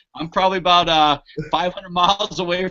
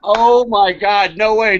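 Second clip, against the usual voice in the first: stunned; 5 dB louder, slower than usual. Real, not acted. Amazed at aura in basement.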